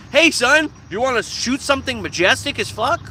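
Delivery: big hammed-up invitation to a son; mock hunter dad. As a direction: parody an eager hunting dad.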